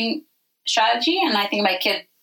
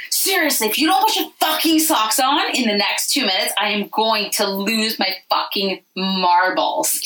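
mock angry mom. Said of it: "I'm literally screaming at them".

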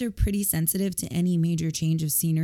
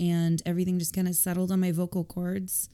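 hoarse with a cold; rough, croaky throat. Real, not acted. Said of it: "my croaky voice".

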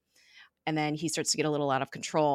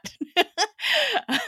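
a high, loud laugh that falls away; amused laugh; 7 dB louder than usual. Real, not acted. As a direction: laugh at the robot joke. Laughing at robot joke.

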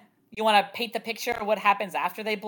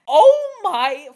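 high, drawn-out exasperated outburst; louder and slower, hammering out each word in disbelief; mock outrage; 6 semitones higher, 7 dB louder, slower than usual. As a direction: play up the exasperation, pitched high. Imagining an outraged reaction to news.

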